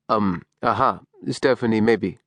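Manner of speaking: a hint of a gentle Middle Eastern father; gentle Middle Eastern accent. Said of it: "in his gentle Middle Eastern accent".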